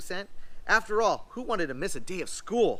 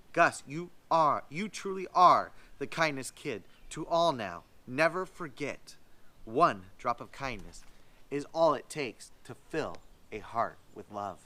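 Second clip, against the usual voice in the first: tender; 4 semitones lower than usual. Acted. Principal's tender closing words.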